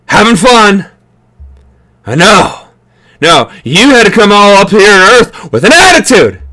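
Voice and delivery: lightly imitated movie-hero griping; Will Smith in Independence Day. Recalling Will Smith's desert scene to viewers, loosely imitated griping. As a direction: loosely act out a put-upon hero's rant. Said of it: "Will Smith".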